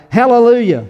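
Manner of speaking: loud, high shout of praise; crying out. A narrator's reading. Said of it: "Once more they cried out".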